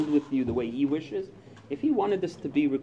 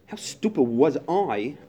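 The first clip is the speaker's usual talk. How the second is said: self-scolding; 3 semitones higher, 7 dB louder, slower than usual. Retold or imitated. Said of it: "That's all going on in my head".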